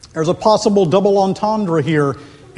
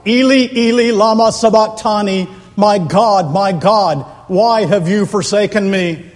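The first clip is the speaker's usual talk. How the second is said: raised cry, strongest at the start; 3 semitones higher, 3 dB louder than usual. Acted. Preacher voices Jesus crying out upon a cross, raised anguished quote. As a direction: cry it out with preacher's force, easing slightly. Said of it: "cried out".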